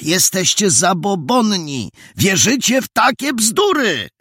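high, indignant rebuke; incredulous high-pitched reproach; exasperated scolding. A narrator's reading. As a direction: scold a superstitious crowd, voice climbing high. Young man scolds superstitious workers.

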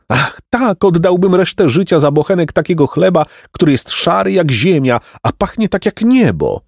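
put-on high-pitched, longing old man; long for it in a high, fervent voice; yearning old man. A narrator's reading. Golden old man craving a loaf of bread, yearning.

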